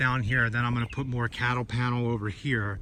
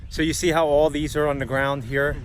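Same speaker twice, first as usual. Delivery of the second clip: wind on mic; 4 dB louder than usual. Real, not acted. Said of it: "Hopefully the wind isn't too windy".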